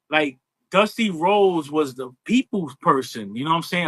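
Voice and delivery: a hint of Dusty as he praises him; lingering Dusty voice. Still half in the Dusty voice while explaining it. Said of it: "That's a good impression".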